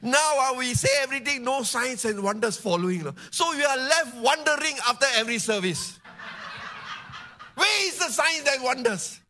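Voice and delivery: high, insistent sermon voice; impassioned preaching. Real, not acted. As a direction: press the point home to the congregation, pitched high. Preaches at full force.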